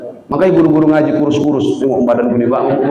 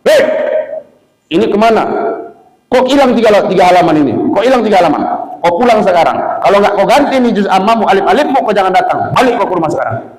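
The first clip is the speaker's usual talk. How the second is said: re-enacted teacher's telling-off; scolding a pupil; 4 semitones higher, faster than usual. Teacher to pupil over three missing pages, acted scolding. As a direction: tell off the child in short, pointed bursts. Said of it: "Saya marahin tuh anak tadi".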